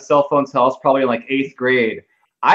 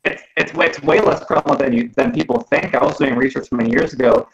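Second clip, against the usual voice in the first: bad connection cutting out; choppy call audio; breaking up. Real, not acted. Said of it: "you're cracking up, Steven".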